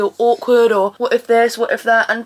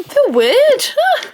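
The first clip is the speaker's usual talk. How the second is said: high, louder yelp as the knee seizes; pained yelp; 13 semitones higher, 4 dB louder, much slower than usual. Real, not acted. Knee seizing up, high pained yelp. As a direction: yelp at a sudden twinge.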